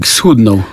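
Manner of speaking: schudnął said in highland dialect instead of schudł; schudnął as a highlander would say it; highland dialect form. Shown as a demonstration. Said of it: "no ale mówię gwarą".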